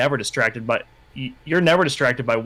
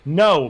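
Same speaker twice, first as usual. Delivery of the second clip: "No" with mild emphasis; emphatic denial; 4 dB louder than usual. A narrator's reading. Denying to Caroline that he met someone, emphatic "No". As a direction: push out a firm "No". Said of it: "my denial is emphatic".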